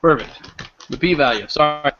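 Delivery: talking while munching chips; eating chips. Real, not acted. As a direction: say it around a mouthful of chips. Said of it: "I'm eating a bag of chips at the same time".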